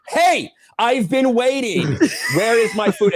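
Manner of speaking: a customer half-yelling at a Taco Bell manager; retold angry demand. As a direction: lean on the counter and demand it slowly. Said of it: "I was pissed off".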